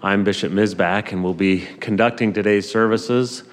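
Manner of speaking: rough, gravelly speaking voice; a gravelly, worn-out voice. Real, not acted. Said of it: "with a gravelly voice".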